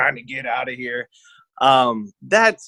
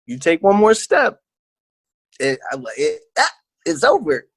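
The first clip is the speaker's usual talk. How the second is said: high and raised, a last warning; warning threat; 4 semitones higher than usual. Retold or imitated. Warning the man walking towards him, a high raised threat. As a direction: draw the line, one step and it's over.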